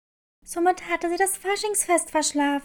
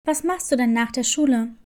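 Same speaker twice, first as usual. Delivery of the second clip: lower, calm nurse asking gently; school nurse voice; 5 semitones lower, faster than usual. Acted. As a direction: drop low and ask like a kind school nurse. Nurse questions Clara.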